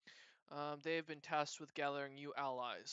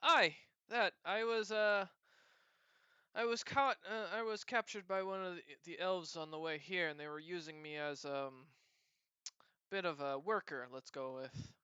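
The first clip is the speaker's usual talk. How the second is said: put-on gruff cat-girl; 3 semitones higher, 4 dB louder than usual. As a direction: bark out the tale with a bit of grit. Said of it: "she looks at you and goes".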